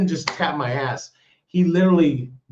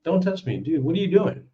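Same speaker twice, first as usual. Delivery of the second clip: retold firm warning; 4 semitones higher, faster than usual. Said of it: "I went".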